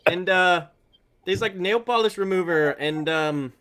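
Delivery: lightly put-on Canadian accent, trailing "eh"; a hint of nice Canadian, searching for words; friendly Canadian accent. Whiskey taster struggling to praise it, mild mock Canadian accent. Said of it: "do it in a super friendly form".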